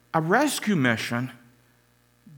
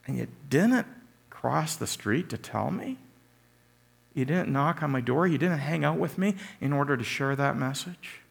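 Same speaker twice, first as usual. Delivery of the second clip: incredulous neighbor; 3 semitones higher, 3 dB quieter than usual. Retold or imitated. Neighbor confronting a believer who never shared, disbelieving. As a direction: accuse them gently, unbelieving. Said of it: "to have someone going".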